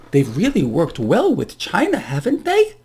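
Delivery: mock-approving, swooping up on the tag question; dripping irony; sarcastic. Real, not acted. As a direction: feign praise, pitch leaping at the end. Sarcastic praise of failed tariffs.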